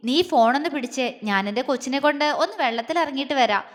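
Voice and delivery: quick, grinning, eager; with a grin. Acted. Agni hurries off with his girl, cheeky grin. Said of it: "അവൻ ഇളിയോടെ പറഞ്ഞു".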